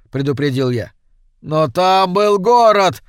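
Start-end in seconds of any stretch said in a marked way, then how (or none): 1.4-3.0 slow, loud and higher desperate cry. A narrator's reading. Bewildered stranger to the Icelanders, a slow loud outcry. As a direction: stranger insists the city existed, crying out slowly. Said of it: "вскричал он".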